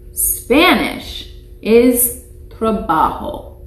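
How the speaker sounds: teacher modelling trabajo; Spanish word model. Shown as a demonstration. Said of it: "You practice that one?".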